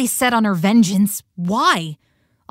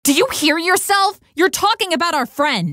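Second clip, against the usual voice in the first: higher, indignant challenge; indignant protest; 5 semitones higher than usual. Acted. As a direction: push back in raised pitch, appalled. Protests friend being called traitor.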